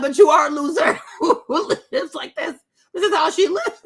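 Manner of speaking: laughing through a mocking put-down; laughing retort. Vlogger laughing as she mocks the crying girl. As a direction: cackle out the insult to her face. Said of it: "I'm like".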